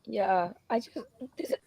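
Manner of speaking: hoarse, losing voice; strained hoarse voice; raspy whisper. Real, not acted. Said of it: "I'm losing my voice".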